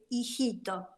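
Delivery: a mother tenderly reassuring her son; understated, loving retold advice; retold tender reply. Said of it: "lo miré con mucha dulzura y le dije".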